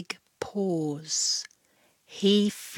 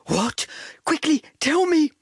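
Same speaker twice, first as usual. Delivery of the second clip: fast, loud impatient yap; yapping dog; 8 semitones higher, 4 dB louder than usual. A narrator's reading. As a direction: yap it like an eager pup. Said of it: "yapped Dog".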